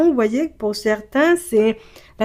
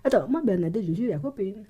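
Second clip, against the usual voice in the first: quoting the client; 6 dB quieter, faster than usual. Retold or imitated. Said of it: "t'as commencé à dire".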